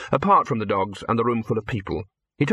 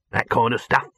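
higher-pitched pitchman voice; brash hustling producer; 4 semitones higher, much slower than usual. Acted. Dibbler pitching his idea to Victor, high brash showman voice. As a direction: sell the idea eagerly, pitch riding up.

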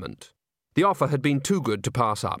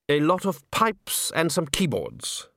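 slow dry gentleman; 4 semitones higher, slower than usual. Acted. Sal Zeller again.

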